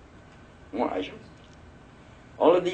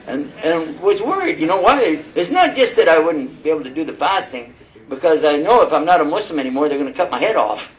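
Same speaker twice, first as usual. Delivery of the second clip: higher, louder, chuckling through the words; laughing while telling; 6 semitones higher, 6 dB louder than usual. Real, not acted. New convert laughing at his old fear of losing his head. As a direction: laugh as you recall the fear.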